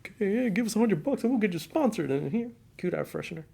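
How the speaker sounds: a hint of a sleazy sponsor pitch; mock booth salesman. Host imitates booth sellers selling sponsorships, mock salesy. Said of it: "You remember those old, those booths?".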